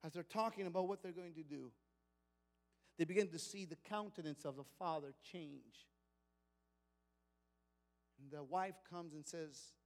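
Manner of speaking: preacher dropping to a near hush; hushed narration. A narrator's reading. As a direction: draw the room in before the bad news. Mood turns, narration drops.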